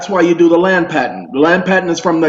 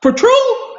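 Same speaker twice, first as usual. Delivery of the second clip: mock Southern question. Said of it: "they say things like".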